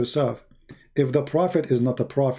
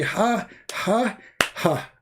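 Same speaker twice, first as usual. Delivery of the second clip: devil laughing; 7 semitones higher, much slower than usual. Retold or imitated. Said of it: "and he say".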